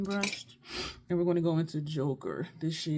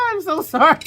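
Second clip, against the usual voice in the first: 1 loud mock apology; 11 semitones higher, 16 dB louder than usual. Retold apology to client.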